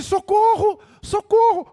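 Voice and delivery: loud, high, drawn-out yell; acted panicked holler; desperate cry for help. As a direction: shout for rescue as if hanging from a cliff. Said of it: "desesperadamente a clamar".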